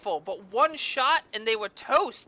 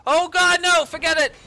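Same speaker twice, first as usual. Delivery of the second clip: high, loud panicked cry of no; panicked yelp; 5 semitones higher, 7 dB louder than usual. Real, not acted. Gamer yelping at a sudden threat, panicked shout. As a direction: recoil in real alarm, yelling. Panicked as enemy attacks in game.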